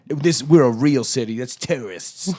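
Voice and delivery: mimicking the Glasgow folks in a hammed-up Glasgow accent. Host quoting the Glasgow makers, in a mock Glasgow accent. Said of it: "that's a horrible accent".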